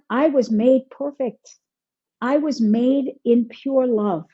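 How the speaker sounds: slow, deliberate affirmation; self-affirmation. Acted. Telling oneself from source energy, slow affirming. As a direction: spell it out slowly, word by word. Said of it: "and go".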